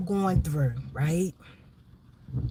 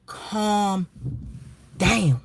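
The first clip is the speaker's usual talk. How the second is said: gentle calm down; 2 semitones higher than usual. Retold or imitated. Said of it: "And I said".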